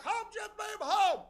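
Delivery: very high, sing-out call to a horse; respectful command. Acted. Rider corrects himself to the horse, high-pitched polite command. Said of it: "Be respectful. Use the horse's name".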